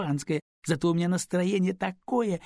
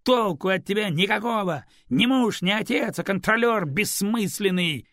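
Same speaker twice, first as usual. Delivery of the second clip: higher and louder, furious scolding; angry tirade; 6 semitones higher, 7 dB louder than usual. Acted. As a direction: tear into her husband. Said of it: "Лиза рассердилась". (разъярённая отповедь мужу)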